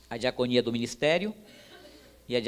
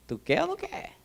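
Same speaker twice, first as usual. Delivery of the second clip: sharply higher, pressing question; God's challenge. Retold or imitated. God pressing the preacher for his answer, higher pitched.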